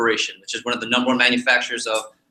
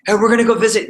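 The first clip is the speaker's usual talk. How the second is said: mom's cheery announcement; 8 semitones higher, 5 dB louder, faster than usual. Retold or imitated. Mom announcing surprise trip.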